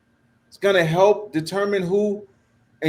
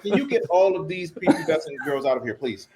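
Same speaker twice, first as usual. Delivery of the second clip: mock Trump voice; 3 semitones lower, faster than usual. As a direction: shoo the girls away like a bothered reader.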